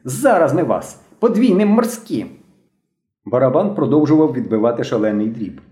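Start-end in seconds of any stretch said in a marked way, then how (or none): 0.0-2.3 put-on high boyish threat, drawn out at the end; shouted threat. A narrator's reading. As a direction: threaten them in a high, excited voice. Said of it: "закричав білобрисий".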